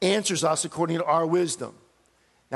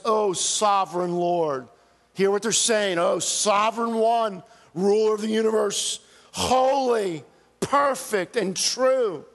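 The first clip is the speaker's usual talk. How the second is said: martyrs' cry. Acted. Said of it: "This is the cry of the martyrs".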